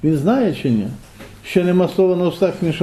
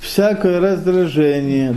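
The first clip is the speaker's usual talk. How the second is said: slow; slower than usual. Shown as a demonstration. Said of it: "І каже".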